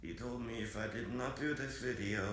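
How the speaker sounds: flat mechanical robot voice. Pretend. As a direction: speak like a computer voice. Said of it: "sounds exactly like a robot".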